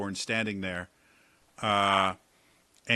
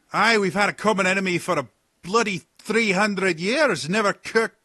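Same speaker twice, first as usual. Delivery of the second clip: rough pirate captain; 11 semitones higher, 7 dB louder than usual. Acted. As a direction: boom out like a jovial old pirate.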